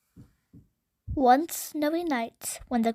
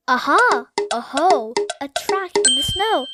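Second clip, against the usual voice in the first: excited discovery; 3 semitones higher, 6 dB louder than usual. Acted. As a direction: call out thrilled at finding a track. Child spots a new track.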